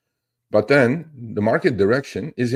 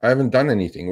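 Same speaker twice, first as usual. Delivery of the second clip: higher-pitched quote of hesitant people; lightly voiced worried followers; 5 semitones higher than usual. Followers telling the host their age, lightly imitated complaint. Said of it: "A lot of people say".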